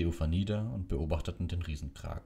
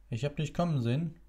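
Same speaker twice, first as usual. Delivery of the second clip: smiling; 10 semitones higher than usual. A narrator's reading. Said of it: "sagte Lupin lächelnd".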